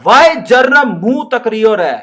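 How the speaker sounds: put-on loud, slow Rajasthani-accented scold; mock Rajasthani madam telling off a boy. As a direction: scold him like a village teacher from Rajasthan. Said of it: "तो madam ने बोला".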